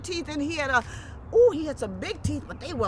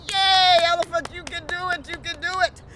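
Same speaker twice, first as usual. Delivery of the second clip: loud, high cheer; 4 semitones higher, 7 dB louder than usual. Acted. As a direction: cheer him on. Animals cheer Elephant.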